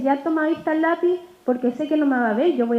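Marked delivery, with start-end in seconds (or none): 0.0-1.2 quick, curt, tossed off; a hurried, careless handover to a child; brusque offhand. Shown as a demonstration. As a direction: hand the pencil over without looking up. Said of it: "a lo mejor no le voy a decir".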